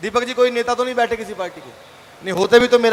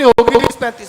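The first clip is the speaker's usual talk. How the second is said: put-on old lady voice, a touch louder; old woman voice; 6 dB louder than usual. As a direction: play the old woman coyly. (बूढ़ी औरत की आवाज़)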